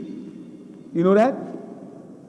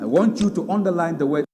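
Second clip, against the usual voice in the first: ordinary delivery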